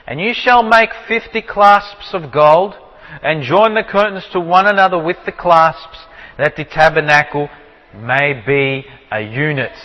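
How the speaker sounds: measured, unhurried Bible verse; scripture reading. Acted. Teacher reads Exodus to the class, measured scripture reading.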